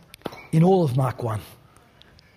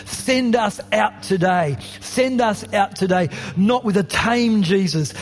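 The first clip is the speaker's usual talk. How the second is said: earnest prayer. Acted. Closing prayer over music.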